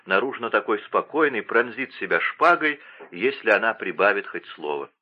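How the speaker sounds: ordinary delivery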